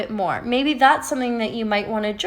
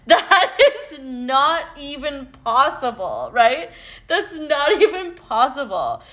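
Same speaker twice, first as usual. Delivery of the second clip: laughing; 4 semitones higher than usual. Real, not acted. Laughing at the absurd idea.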